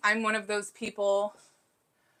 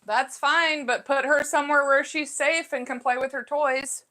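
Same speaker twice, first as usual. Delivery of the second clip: a little loud; 5 semitones higher than usual. Real, not acted. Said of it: "Sorry if that was a little loud".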